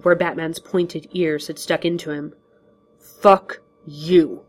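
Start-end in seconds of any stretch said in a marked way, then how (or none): 3.0-4.5 gruff curse. Acted. Batman curses back.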